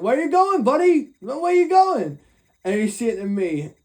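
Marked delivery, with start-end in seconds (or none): 0.0-2.2 high, mocking sing-song taunt. Taunting the fleeing guy, high mocking call. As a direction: needle him as he runs off. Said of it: "I'm like".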